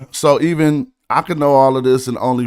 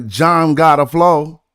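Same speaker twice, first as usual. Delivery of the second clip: slow, louder, leaning on the rhyme; "John got a flow" drawn out to land the rhyme; rhyme demo; 3 semitones higher, 5 dB louder, slower than usual. Shown as a demonstration. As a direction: spell out the rhyme slowly. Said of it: "then you didn't rhyme all four syllables".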